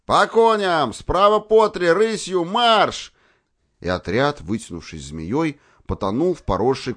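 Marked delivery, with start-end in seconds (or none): 0.1-3.1 high, loud barked commands; hoarse battle cry. A narrator's reading. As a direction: bark the orders to the troop. Cavalry commander gives orders.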